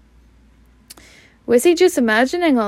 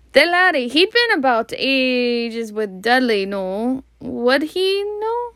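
forced jocular; 2 semitones higher than usual. Acted. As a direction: try too hard to sound casual. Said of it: "jocular as he was able".

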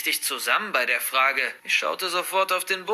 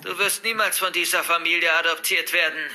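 scornful purr. Acted. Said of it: "wieder dieses höhnische Säuseln".

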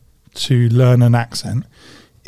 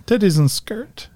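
Cornish accent; 6 semitones higher than usual. Shown as a demonstration. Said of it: "that's my best".

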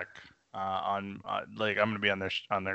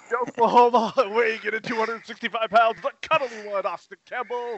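high, booming ring announcer; radio announcer voice; 7 semitones higher, 3 dB louder than usual. Pretend. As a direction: hype up the fighter's entrance. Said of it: "with the radio announcer's voice".

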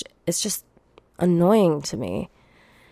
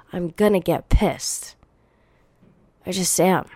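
whispered threat. Real, not acted. Muttered threat, unvoiced.

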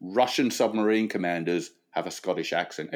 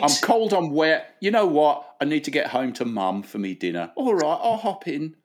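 put-on higher, pleading-to-himself young man; hitchhiker deciding; 5 semitones higher than usual. Wet lad deciding to accept a lift home, higher acted voice. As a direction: talk yourself into it, pitched up.

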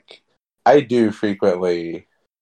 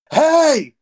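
high, loud cartoon-voiced holler; sudden piercingly high impression call; King Kai; 5 dB louder than usual. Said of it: "In his fucking King Kai ass voice".

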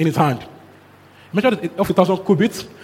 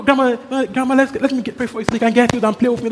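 lightly voiced little girl, higher; child begging; 5 semitones higher than usual. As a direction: coax grandma like an eager child. Granddaughter begging grandma.

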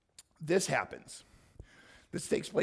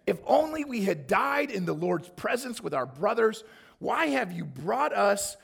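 whiny complaint; 4 semitones higher, 4 dB louder than usual. Acted. People complaining to Moses, read aloud.

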